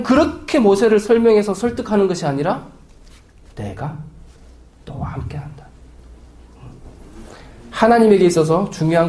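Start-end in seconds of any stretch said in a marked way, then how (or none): 3.5-5.6 hushed, very soft and low; whispered promise. Acted. God promises Moses his presence, whispered. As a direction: breathe the promise out.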